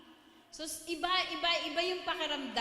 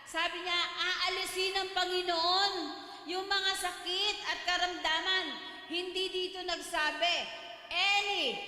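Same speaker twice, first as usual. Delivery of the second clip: fervent preaching; 3 semitones higher than usual. Acted. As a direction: preach it with rising conviction, reading scripture aloud. Preaching the testimony's lesson.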